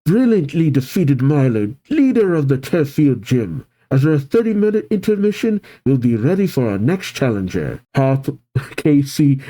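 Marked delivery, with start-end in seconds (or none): 0.1-7.8 lightly voiced stadium announcer; a touch of sports-announcer lilt. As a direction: announce the result to the stands. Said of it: "The announcer says".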